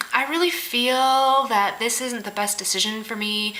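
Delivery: slow, drawn-out imitation of hedging; mock passive-aggressive. People avoiding a decision, slow mock passive-aggressive. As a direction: stretch it out like a mealy excuse. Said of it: "it's such a passive aggressive".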